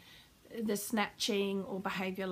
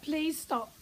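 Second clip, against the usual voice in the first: pleading; 5 semitones higher than usual. Shown as a demonstration. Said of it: "like we're at our wit's end and we're pleading".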